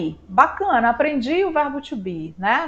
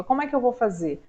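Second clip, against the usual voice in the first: usual speaking voice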